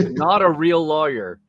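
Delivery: slow, emphatic mock disclaimer. Host quoting TV ad small print, slow disclaimer voice. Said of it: "put the disclaimer on ads".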